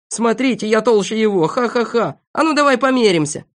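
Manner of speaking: high-pitched mocking challenge; laughing, goading dare; giggling jeer. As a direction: taunt with a burst of laughter. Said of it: "хихикая и показывая пальцем".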